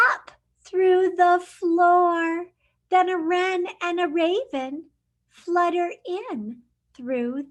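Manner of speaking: lively picture-book read-aloud; reading to children. Acted. Teacher reading a picture book to her class, lively storytime voice.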